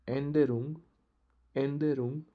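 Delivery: एंडेरुंग called out loud and clear; loud teaching demo; emphatic drill word. Shown as a demonstration. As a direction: project एंडेरुंग to the class. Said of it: "मेरे साथ आपको pronounce करना है".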